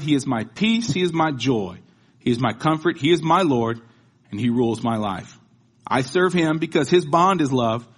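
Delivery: rising litany, proclaimed with force; preaching. Acted. Preacher proclaiming God's titles to the congregation, fervent. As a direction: preach it like a roll call of praise.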